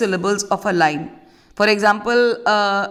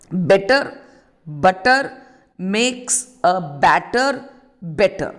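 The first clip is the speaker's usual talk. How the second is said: slow, word by word; 3 semitones lower, slower than usual. Shown as a demonstration. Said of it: "So this is an alliteration".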